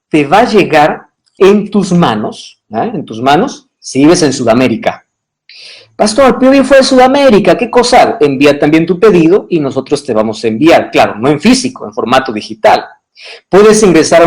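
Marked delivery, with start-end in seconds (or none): 5.9-8.2 voicing a viewer. Viewer's question voiced by pastor.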